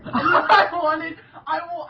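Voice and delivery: ordinary delivery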